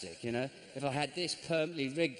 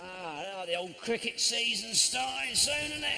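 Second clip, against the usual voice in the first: faux nonchalant; 4 semitones higher, slower than usual. Pretend casual after almost killed.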